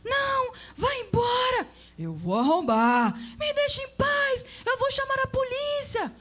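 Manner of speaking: very high, loud terrified cries; panicked pleading. Acted. TV woman begs the man to leave, panicked. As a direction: beg for your life. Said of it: "uma voz de mulher implorava, em pânico".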